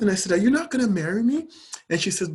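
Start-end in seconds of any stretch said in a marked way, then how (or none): 0.3-1.5 quick, high incredulous question; retold disbelief. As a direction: act out being taken aback, pitch climbing. Retelling his disbelief at her condition.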